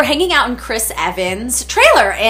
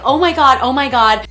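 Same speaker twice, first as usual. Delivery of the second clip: freaking out; 4 semitones higher, 4 dB louder than usual. Retold or imitated. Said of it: "I'm freaking out".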